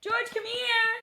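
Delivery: high whispered call to the dog. Real, not acted.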